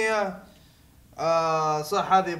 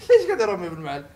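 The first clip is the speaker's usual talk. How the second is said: laughing; 3 semitones lower, much faster than usual. Shown as a demonstration.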